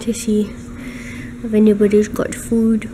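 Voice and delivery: a hint of a greedy food monster; voicing the cat. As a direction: playfully speak for the hungry cat. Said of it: "He's like".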